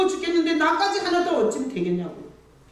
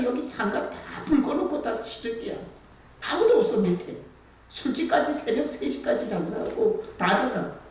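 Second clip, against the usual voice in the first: ordinary talk, nothing marked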